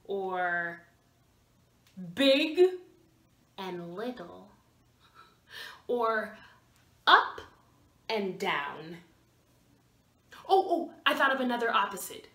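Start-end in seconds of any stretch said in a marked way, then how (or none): 2.2-2.6 big voice. Shown as a demonstration. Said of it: "Opposites are like". 3.6-4.5 small and very soft; tiny voice. Shown as a demonstration. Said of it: "Opposites are like". 7.1-7.4 high voice. Shown as a demonstration. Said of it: "Opposites are like". 8.1-9.0 low voice. Shown as a demonstration. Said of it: "Opposites are like".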